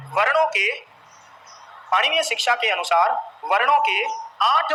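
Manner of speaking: phrase by phrase, pausing for writers; dictation. Real, not acted. Teacher dictating notes to the class, halting dictation. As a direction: dictate in separate, evenly weighted chunks.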